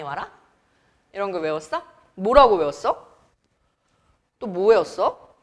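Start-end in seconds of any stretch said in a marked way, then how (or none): none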